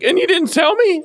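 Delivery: indignant disbelief. Retold or imitated. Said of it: "He's like".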